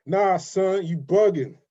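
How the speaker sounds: imitated New York street-slang accent. London guest copying the host's slang line, imitated New York accent. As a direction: copy the New York line with playful swagger. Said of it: "since you do New York".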